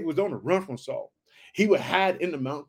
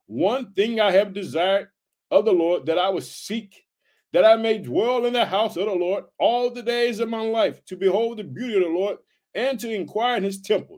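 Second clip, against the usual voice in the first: scripture reading; 3 semitones higher than usual. Acted. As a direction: read the verse out with weight. Reads Psalm verse in preaching voice.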